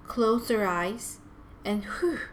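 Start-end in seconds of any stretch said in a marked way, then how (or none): 1.9-2.2 deep breath out. A narrator's reading. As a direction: blow out a calming "whew". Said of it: "let out a deep breath".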